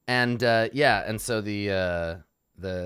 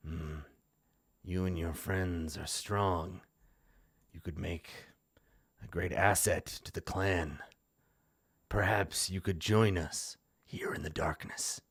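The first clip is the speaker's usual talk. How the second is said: seductive whisper; 3 dB quieter than usual. Acted. Vampire lord tempting the heroes, hushed whisper. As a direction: lure them into the dark, softly.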